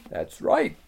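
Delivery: lisping buck-toothed beaver. Acted.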